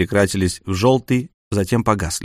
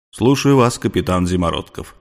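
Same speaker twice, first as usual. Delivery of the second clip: deep otherworldly voice; 3 semitones lower than usual. Acted. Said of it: "глубоким, потусторонним голосом из кино".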